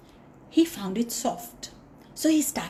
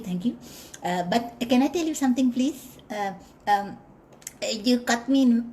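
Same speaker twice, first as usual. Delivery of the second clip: mouse voice. Acted. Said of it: "The mouse said".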